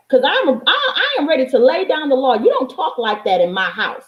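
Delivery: usual speaking voice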